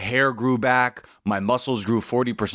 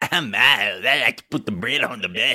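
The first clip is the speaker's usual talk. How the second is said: put-on crude cartoon kid voice. Mocking how someone else just talked, in a shitty South Park character voice. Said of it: "Like some shitty South Park character?".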